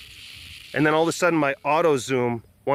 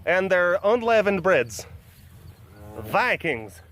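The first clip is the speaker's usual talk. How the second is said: higher, hammed-up fake Norwegian accent; dubious Norwegian accent; 6 semitones higher than usual. Joking about Norwegians and their lutefisk, dubious Norwegian accent. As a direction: badly fake a Norwegian accent, climbing in pitch. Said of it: "I don't even know what sort of accent this is".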